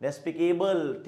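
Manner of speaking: despicable drawn out syllable by syllable, very slowly; slow, clear model word. Shown as a demonstration. Teacher modelling the English word despicable, very slowly. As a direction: spell it out slowly for the class. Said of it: "that is".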